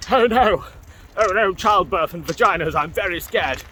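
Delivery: hammed-up fearful dad; mocking scared dad. Mocking useless dads.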